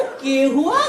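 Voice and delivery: mocking Haryanvi echo, rising at the end; Haryanvi accent. Stranger mocking the driver's reply, in Haryanvi. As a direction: throw it back in a Haryanvi accent. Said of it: "एकदम खड़ी हरियाणी में बोला".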